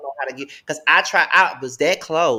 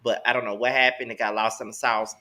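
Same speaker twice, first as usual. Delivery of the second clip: ordinary talk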